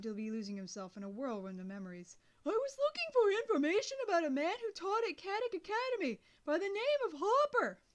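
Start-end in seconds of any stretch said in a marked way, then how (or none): 2.5-7.8 loud, high yell; boy yelling his name to a deaf old man. A narrator's reading. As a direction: shout every word down the line.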